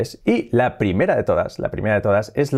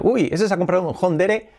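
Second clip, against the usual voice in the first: mock villager; 6 semitones higher than usual. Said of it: "en mi pueblo dicen".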